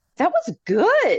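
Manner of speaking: play-acted, very high-pitched, surprised little exclamation. Retelling what a man said after his first Pilobolus show, retelling a surprised remark. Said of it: "Like with a surprise voice".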